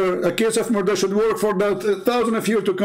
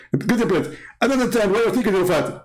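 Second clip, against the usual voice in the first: mock Zakir Naik, fast; 3 semitones higher than usual. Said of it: "Zakir Naik will answer with high speed".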